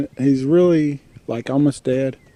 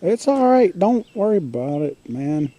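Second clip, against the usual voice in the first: reassuring pet talk; 4 semitones higher than usual. Real, not acted. Reassuring the annoyed raccoon.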